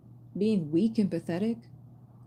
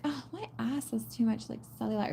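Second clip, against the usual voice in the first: mock whiny girl; 3 semitones higher, 4 dB quieter than usual. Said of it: "the other girl is like".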